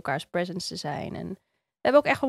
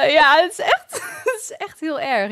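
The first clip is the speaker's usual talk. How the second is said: laughing while talking; 8 semitones higher, 8 dB louder than usual. Real, not acted. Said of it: "Ik lach zomaar".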